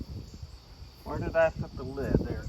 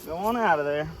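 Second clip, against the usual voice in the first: hillbilly accent calling out; coaxing in a hillbilly accent. Real, not acted. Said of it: "I'm talking like a hillbilly".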